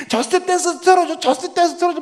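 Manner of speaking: mock-sob the demand like a small kid; dad imitating his crying six-year-old; crying little girl. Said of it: "막 울면서 그거 틀어달라고".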